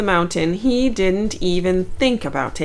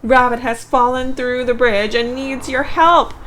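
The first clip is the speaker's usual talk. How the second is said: a bird yelling an alarm, louder and a bit higher; urgent yell; 5 semitones higher, 4 dB louder than usual. Acted. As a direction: shout the news to wake the bear. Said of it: "hear Bird yell".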